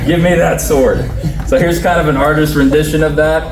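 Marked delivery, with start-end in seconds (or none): 0.1-1.1 laughing. Retold or imitated. Teller laughing through David's line.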